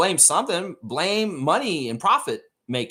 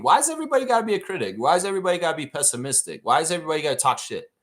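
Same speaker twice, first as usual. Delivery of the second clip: exasperated rant; much faster than usual. Real, not acted. Host ranting at jersey critics, fast and exasperated. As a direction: rattle off the complaints in disbelief.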